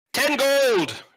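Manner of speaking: loud, high, hard-of-hearing shout; overly loud voice. Acted. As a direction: bellow it like a deaf smith. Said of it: "in the overly loud voice of somebody who's hard of hearing".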